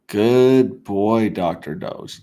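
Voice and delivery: talking to a dog he's pleased with; praising a good dog. Pretend. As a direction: cheer on the good boy.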